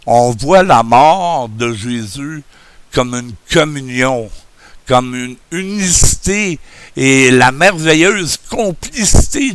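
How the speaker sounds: speaking without dentures; gummy toothless speech. Real, not acted. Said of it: "comme un bon vieux vieillard édenté".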